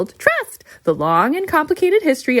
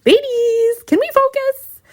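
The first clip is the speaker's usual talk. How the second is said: exasperated; 14 semitones higher than usual. Acted. Host loses control of workshop.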